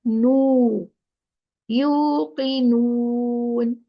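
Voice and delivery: slow "Yuqinun" with a pure, held u. Shown as a demonstration. Teacher has learners pronounce nu purely, pure long u. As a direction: keep "nu" pure and drawn out. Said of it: "purely nu".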